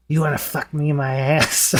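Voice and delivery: rough imitation of a Middle Eastern or Indian caller's accent; lightly put-on Indian or Middle Eastern accent; imitated Indian-or-Middle-Eastern accent. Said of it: "he starts going literally just like this".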